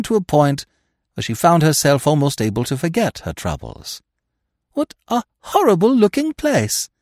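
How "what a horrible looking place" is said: exclaiming. A narrator's reading. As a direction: gasp at the sight of it. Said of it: "she exclaimed".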